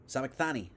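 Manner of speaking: "Sabachthani" said as sah-bak-THAH-nee; tentative pronunciation. Shown as a demonstration. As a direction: sound out "Sabachthani" with a clear th before the -ani. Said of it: "I think is how you say that".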